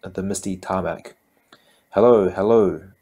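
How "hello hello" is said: lilting British hello, loud and bright-voiced; sing-song British. A narrator's reading. Airport greeter calling to the professor, sing-song British. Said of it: "a sing-song British voice".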